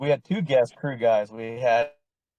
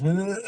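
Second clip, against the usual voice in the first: high, strained groan of a man whose nerves are shot; mock nervous ugh; 7 semitones higher than usual. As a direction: let out a tense, wound-up groan. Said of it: "his nerves were shot".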